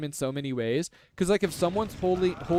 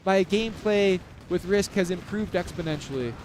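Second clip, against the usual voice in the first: lightly gushing fanboy, a bit higher at first; mock grateful player; 3 semitones higher than usual. Commentator imagining a player thanking him, mildly hammed-up gratitude. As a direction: fawn over the commentator with a touch of sarcasm. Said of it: "he'll be like".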